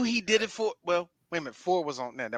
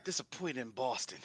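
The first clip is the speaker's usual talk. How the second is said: laughing; 8 semitones lower, 17 dB quieter than usual. Real, not acted. Joking Boston disappointment.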